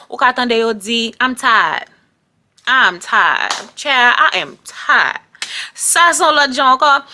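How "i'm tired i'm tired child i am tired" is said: Black American. Retold or imitated. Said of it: "si ou son black American ki ghetto".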